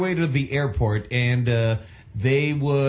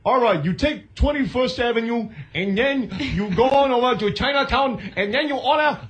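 put-on higher, nasal New York accent sliding into Chinatown talk; 8 semitones higher than usual. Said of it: "Can you do a, a ngongo New York accent".

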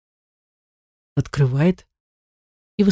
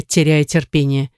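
ordinary delivery, nothing marked

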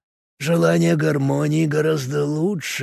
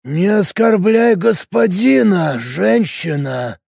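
raised voice; 7 semitones higher, slower than usual. A narrator's reading. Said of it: "впервые за время разговора повысил голос".

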